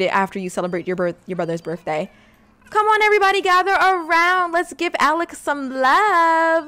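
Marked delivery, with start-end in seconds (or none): 2.7-6.7 cheerful rallying call. Real, not acted. Gathering family to celebrate.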